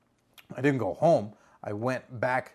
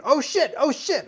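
much higher, louder yelp of alarm; excited scream; 11 semitones higher, 5 dB louder than usual. Retold or imitated. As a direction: scream it at the man in the dark. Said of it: "I just start screaming".

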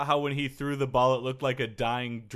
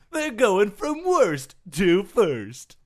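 loud, slow trailer announcer; movie trailer voice; 6 semitones higher, 6 dB louder, much slower than usual. Retold or imitated.

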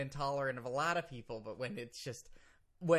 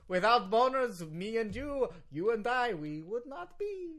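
put-on higher, heavily Russian-accented pleading case; 6 semitones higher, 5 dB louder than usual. Lawyer reasons with host, high very Russian accent. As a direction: argue it grandly in thick Russian English. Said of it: "You are so Russian right now".

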